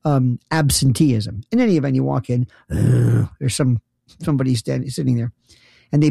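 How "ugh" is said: low, vacant groan; zombie groan. Retold or imitated. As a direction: groan like the living dead. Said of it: "It's like Night of the Living Dead".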